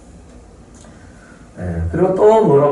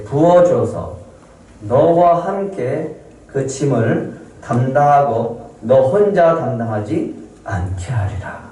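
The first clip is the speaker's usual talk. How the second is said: voice of God; slower than usual. Retold or imitated. God answering Moses.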